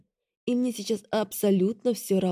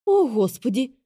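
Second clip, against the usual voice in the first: much higher, louder panicked squeak; 5 semitones higher, 4 dB louder than usual. A narrator's reading. Assistant squeaking in panic about the meeting. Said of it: "запищало это маленькое создание".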